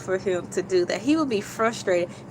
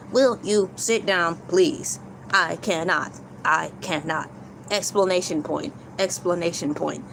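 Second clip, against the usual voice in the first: robot voice; 4 semitones lower than usual. Pretend. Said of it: "I too can speak robot".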